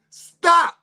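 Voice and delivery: loud high yelled stop; shrieked stop; screaming stop. Retold or imitated. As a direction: shout it to make them quit. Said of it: "I'm screaming".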